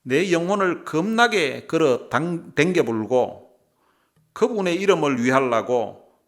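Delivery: loud, hearty Jeolla dialect reading. Shown as a demonstration. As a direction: belt out scripture in Jeolla dialect. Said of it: "전라도 버전도 있습니다". (크고 걸쭉한 전라도 사투리로 읽기)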